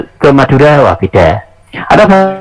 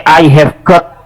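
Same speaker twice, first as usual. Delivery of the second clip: slow careful example; much slower than usual. Shown as a demonstration. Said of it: "mau pakai".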